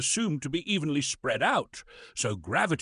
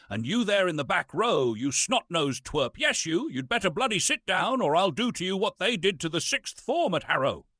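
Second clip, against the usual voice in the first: raised, higher bark at the back row; scolding a heckler; 5 semitones higher than usual. Acted. Pompous actor scolding a student in the back row, raised and sharp. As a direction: tell off the twerp.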